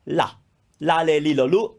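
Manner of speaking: "la, le, li, lo, lu" with a light frontal L; tongue tip behind the teeth on each "la, le, li, lo, lu"; unchoked Italian L. Shown as a demonstration. Teacher demonstrating the syllable exercise, frontal Italian L. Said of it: "Italian doesn't have that chokingness".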